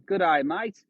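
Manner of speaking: high-pitched, hammed-up Australian; bad Australian accent. Shown as a demonstration. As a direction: badly fake an Aussie accent, drawn out at the end. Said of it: "I'm gonna do an Australian accent".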